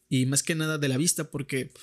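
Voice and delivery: words stretched by a yawn. Real, not acted. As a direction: talk through a yawn. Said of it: "estoy bostezando".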